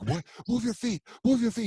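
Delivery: imitating the boxing trainer. Retelling the Panamanian trainer yelling at the two actors. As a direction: fire it at him like a coach on the pads. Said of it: "He's from Panama".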